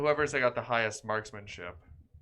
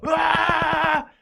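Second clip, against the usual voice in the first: high, loud, sustained "aah"; gunner's battle yell; 14 dB louder than usual. Acted. Player showing why a machine gun is more satisfying, yelling. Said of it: "You can yell".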